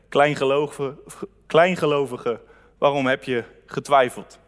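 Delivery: a lightly voiced Jesus, calm reproach; Jesus's voice. Jesus gently rebuking Peter as he lifts him from the water. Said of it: "zei tegen hem".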